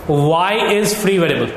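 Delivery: very slow, every word drawn out; slow dictation. Shown as a demonstration. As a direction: spell it out for the class to copy. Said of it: "लिखिए, therefore". (बहुत धीरे लिखवाना)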